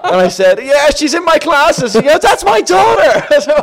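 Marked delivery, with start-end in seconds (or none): 0.6-1.9 high, loud, slow wail; hammed-up strained cry; mock agonised shout. Retelling his cry while in agony. 2.2-3.3 very high, loud, drawn-out squeal; imitated nurse's slow shriek; Irish mammy. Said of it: "this Irish mammy".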